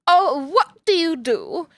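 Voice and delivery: put-on old-Hollywood transatlantic accent; mid-Atlantic accent. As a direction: imitate a stage diva's mid-Atlantic accent. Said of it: "mid-Atlantic accent where she goes".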